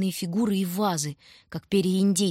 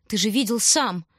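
rising, louder plea; louder insistence; 3 semitones higher, 3 dB louder than usual. Acted. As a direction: push it out at him, upset. Frightened insisting to brother.

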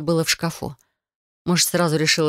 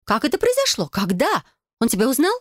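put-on bright, higher girlish cousin voice, eager; Felicia's voice; 8 semitones higher than usual. Cousin proposing a blood oath to Adel, eager and higher. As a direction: play the scheming cousin, higher.

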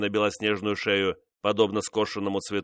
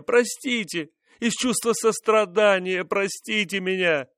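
much higher, desperate pleading, slowing at the end; begging favourite; 11 semitones higher than usual. Acted. Mistress begging the king for mercy, high desperate plea.

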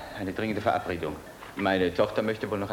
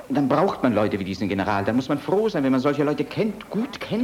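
insistent father; 3 semitones higher, 6 dB louder than usual. Acted.

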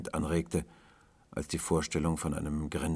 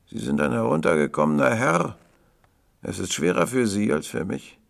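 high, loud lad's voice; cheeky young boy; 6 semitones higher, 9 dB louder than usual. A narrator's reading. Boy telling tramp he is a fallen gentleman, high and loud. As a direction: pronounce judgement loudly in a boy's high pitch.

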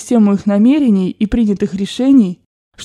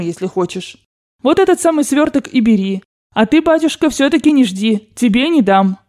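lightly voiced grandmother; 2 semitones higher than usual. Grandmother ordering servants to give money, lightly voiced. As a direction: hand out orders like a rich old grandmother.

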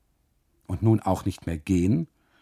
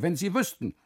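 pained whine; 10 semitones higher than usual. Acted. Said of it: "ruft er".

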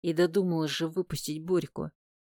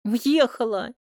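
whimpering; 6 semitones higher, slower than usual. A narrator's reading. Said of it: "начинает хныкать Сонька".

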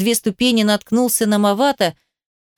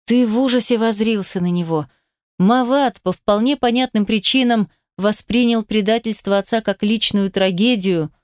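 usual speaking voice

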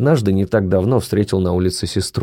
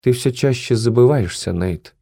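sneering fake sweet; 5 semitones higher than usual. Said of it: "хмыкнула Хайди".

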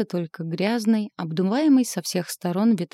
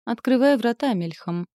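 loud higher command; barked order; 5 semitones higher, 3 dB louder than usual. A narrator's reading. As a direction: order the guard sharply. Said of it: "приказал стражнику".

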